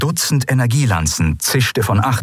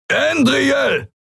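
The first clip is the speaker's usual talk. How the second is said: thundering shout. Acted. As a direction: bellow the name across the bridge. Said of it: "donnerte eine mächtige Stimme".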